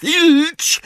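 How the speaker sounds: very high-pitched angry shriek; angry cry. A narrator's reading. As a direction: screech the name in anger. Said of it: "krzyknęła ze złością Umbridge". (wysoki, gniewny krzyk)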